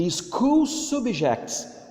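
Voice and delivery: slow, high, careful English model; teacher modelling English slowly; slow model reading. Shown as a demonstration. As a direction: read it out slowly for the class to copy. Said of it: "acompanhe aí com o teacher".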